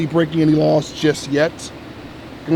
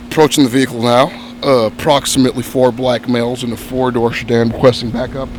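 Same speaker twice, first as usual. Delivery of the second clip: low cop radio call; clipped dispatch report, quick; police radio; 6 semitones lower than usual. Acted.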